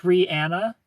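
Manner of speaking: a singer's name said "Ree-ANN-uh"; pronunciation demo. Shown as a demonstration. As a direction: say the name with a short flat A as in "Anna". Shows wrong and right name.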